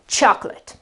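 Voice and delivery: "chocolate" with a weak schwa "lut"; no stress on the end of "chocolate"; unaccented ending. Shown as a demonstration. Teacher illustrates the unaccented suffix, "CHOK-lut". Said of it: "There can be no accent".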